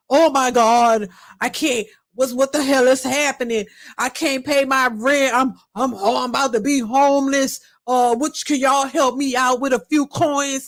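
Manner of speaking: lightly mimicked man in a panic; attempted male voice. Man asking viewers for rent money, lightly put-on male voice. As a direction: play a man begging online, not too convincingly. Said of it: "I'm trying to do my male voice".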